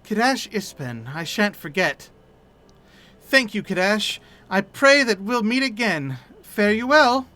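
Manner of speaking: lightly voiced, hesitant, stumbling young adventurer; shy widow-to-be speaking of her dead fiancé; a hint of a nervous, mournful young woman; timid grieving young woman. Etta again.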